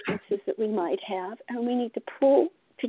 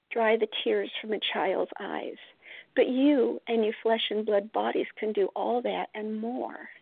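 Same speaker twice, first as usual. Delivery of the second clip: calm, unhurried reassurance from a kind spirit; understated tender voice of Spirit; gentle and kind. Retold or imitated. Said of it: "gentle and kind way".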